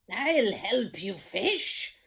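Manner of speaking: slow, kindly offer of help; calm the frightened cook; reassuring king. Acted. King reassuring the scared cook, slow and kind.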